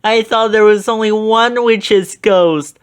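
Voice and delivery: high, loud, out-of-breath gasp; panicked Shaggy; panting fright. A narrator's reading. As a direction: cry it while running away. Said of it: "Shaggy panted".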